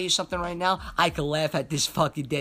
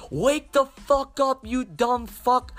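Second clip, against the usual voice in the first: imitating dad yelling, higher and louder; retold scream; 8 semitones higher, 5 dB louder, slower than usual. Dad yelling at son asleep in the car, imitated higher and louder scream. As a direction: mimic the furious dad at the window. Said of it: "He's screaming at my window".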